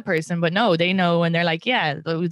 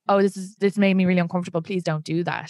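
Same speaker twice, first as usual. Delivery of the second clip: polite discomfort; 3 semitones lower than usual. Retold or imitated. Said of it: "I was just very like".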